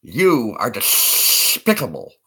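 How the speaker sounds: slow, spitting cartoon duck line; lightly voiced Daffy, drawn out; Daffy Duck impression. Trying Daffy Duck for chat, slow lisping cartoon duck. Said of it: "you watch some Daffy Duck?".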